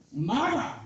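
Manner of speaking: goose-like honk, rising. Retold or imitated. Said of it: "Sounds like a goose that got hit".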